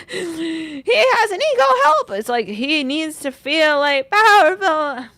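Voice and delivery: slow, creepy, lightly voiced puppet drawl; a hint of a slow, eerie Salad Fingers. Mocking the client's ex as a slow, eerie Salad Fingers. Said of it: "That voice is salad fingers right there".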